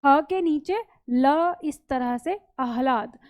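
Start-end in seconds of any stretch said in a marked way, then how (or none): 0.0-1.5 slow, deliberate ह के नीचे ल; teacher spelling the conjunct slowly; slow dictation. Shown as a demonstration. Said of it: "मिलेगा ऐसे".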